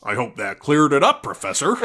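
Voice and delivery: high, loud put-on boy voice; a cheeky pupil thanking his teacher; Harry Potter impression. Bad Harry impression replying to the professor, high and loud. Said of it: "It's even worse".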